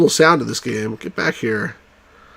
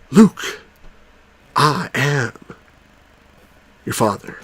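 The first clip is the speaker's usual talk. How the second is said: mock Vader misquote; misquoted Vader; slower than usual. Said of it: "But he doesn't say that".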